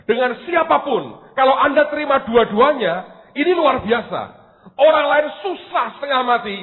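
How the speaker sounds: forceful preacher's cadence; emphatic preaching. Real, not acted. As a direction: preach it out to the congregation, hammering key words.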